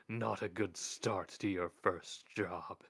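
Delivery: very slow, dry close; dry understatement. Acted.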